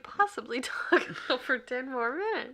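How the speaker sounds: incredulous. Real, not acted. Partner mock-incredulous at ten more minutes.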